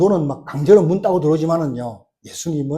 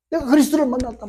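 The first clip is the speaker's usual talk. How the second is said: retold shout, held back; 8 semitones higher than usual. Preacher echoing the woman's news, held-back imitated shout. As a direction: repeat the cry high, without shouting. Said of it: "막 고함 질러요".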